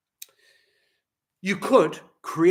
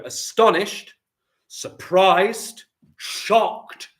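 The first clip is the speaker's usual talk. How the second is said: surprised gasps; 8 semitones higher, 7 dB louder, much slower than usual. Shown as a demonstration. Teacher acting out emotion words.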